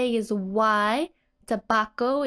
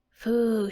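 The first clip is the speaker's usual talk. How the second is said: breathing out. Retold or imitated. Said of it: "she's breathing out".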